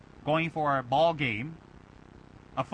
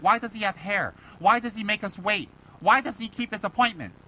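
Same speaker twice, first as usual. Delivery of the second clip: acted indignant griping, higher-pitched; pissed-off complaint; 4 semitones higher, 4 dB louder than usual. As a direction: fire off the questions like an annoyed student. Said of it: "you get pissed off".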